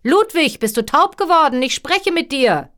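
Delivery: high, loud scolding shout; a king yelling at a servant who won't answer; impatient calling out. A narrator's reading. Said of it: "rief er noch einmal".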